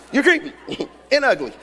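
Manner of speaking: laughing put-down; mock rebuff through laughter. Woman turning down the creepy dude, laughing. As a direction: break into a laugh mid-insult.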